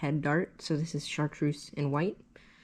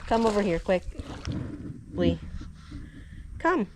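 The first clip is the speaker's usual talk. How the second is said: calling from far away; 4 semitones higher than usual. Real, not acted. Calls Lee over to help.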